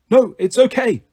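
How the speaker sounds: a hint of elderly goat; gently put-on grandfatherly voice; old man's voice. A narrator's reading. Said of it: "said the voice again".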